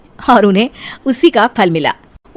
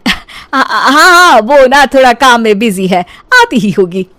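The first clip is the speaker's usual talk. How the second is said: flustered; 4 dB louder than usual. Acted. Mother-in-law flustered by question.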